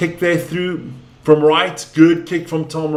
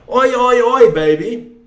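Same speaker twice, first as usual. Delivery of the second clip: celebrating try; 5 semitones higher, 3 dB louder than usual. Real, not acted.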